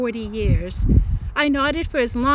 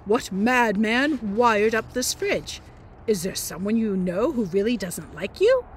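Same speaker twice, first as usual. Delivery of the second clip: electrician. Retold or imitated. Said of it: "he said to Mum".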